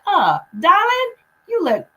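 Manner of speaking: lightly voiced gushing lady in the mirror; Louise Hay. Complimenting herself in the mirror, mock gushing lady voice. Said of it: "I can't do her accent".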